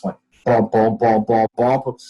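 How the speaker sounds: imitated heartbeat music. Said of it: "So you gotta do it in your head".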